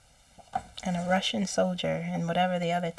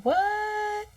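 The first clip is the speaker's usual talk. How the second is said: a much higher, stunned "What?"; shocked what; 13 semitones higher than usual. Retold or imitated. Told Trump is a Russian soldier, stunned disbelief. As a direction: blurt it out in disbelief.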